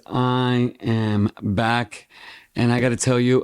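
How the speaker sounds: ordinary delivery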